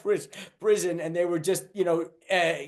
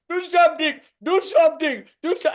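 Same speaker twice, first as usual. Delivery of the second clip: high, louder frantic repeated plea; panicked shout; 10 semitones higher, 4 dB louder, faster than usual. Retold or imitated. Owner begging the comic to stop the brawl, frantic shout. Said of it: "the owner is an Indian guy".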